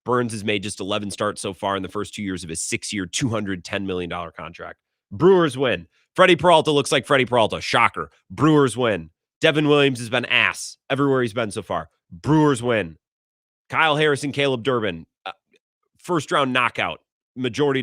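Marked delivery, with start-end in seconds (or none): 5.1-13.0 louder triumphant chant; emphatic repeated gloat; gloating refrain. Real, not acted. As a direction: rub it in each time. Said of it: "repeated triumphant refrain".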